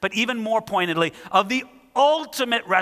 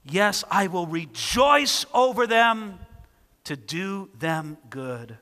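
slow, deliberate reading that fades to a hush on the last words; slower than usual. Shown as a demonstration. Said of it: "look at what he says in verse forty-one".

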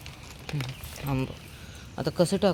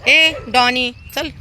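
louder, higher summons; calling out; 6 semitones higher, 5 dB louder, slower than usual. Real, not acted. Feeder calling Donny to come along, calling out. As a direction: call the dog over.

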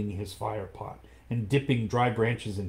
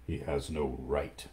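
lower, soft panther whisper; 7 semitones lower, 7 dB quieter than usual. Acted. Panther whispers to Mowgli at the council, low and soft. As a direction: hush it close to his ear. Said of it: "whispered Bagheera".

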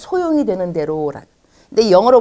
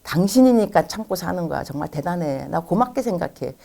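grateful husband. Retold or imitated. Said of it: "그럼 이렇게 말씀하셔야죠".

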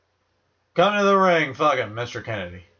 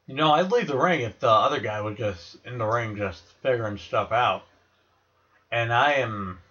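mouth full. Real, not acted. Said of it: "slurring with this fucking gum in my mouth".

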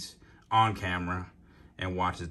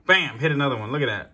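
excited; 4 semitones higher, 5 dB louder, faster than usual. Real, not acted. Second strike, excited.

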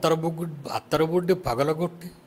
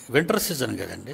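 ordinary talk, nothing marked

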